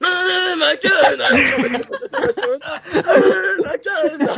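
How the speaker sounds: shouted catchphrase. Pretend.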